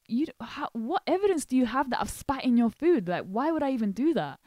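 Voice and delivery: retold indignant protest. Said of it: "And I was like".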